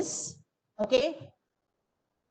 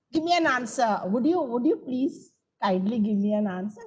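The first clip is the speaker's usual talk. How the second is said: polite request. Shown as a demonstration. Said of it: "an imperative can be a request".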